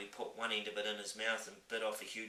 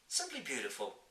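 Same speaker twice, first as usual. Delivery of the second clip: put-on young girl voice; 6 semitones higher than usual. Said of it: "Sophie repeated".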